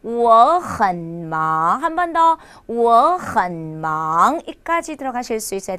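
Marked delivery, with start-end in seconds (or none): 0.0-1.8 我很忙 slowly, 我 rising, 很 low, 忙 rising; slow tone model of 我很忙, 很 kept low; second, half-third, second tones. Shown as a demonstration. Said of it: "이성의 반삼성 이성". 2.7-4.4 我很忙 slowly, 我 rising, 很 low, 忙 rising; slow tone model of 我很忙, 很 kept low; second, half-third, second tones. Shown as a demonstration. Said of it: "이성의 반삼성 이성".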